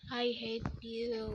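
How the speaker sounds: quiet sulk. Real, not acted. Muttered at hacker.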